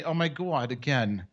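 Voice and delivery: lightly acted kvetching complainer; mock lament over a small loss. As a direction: grumble like a put-upon old complainer. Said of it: "all complainers sound like that to me".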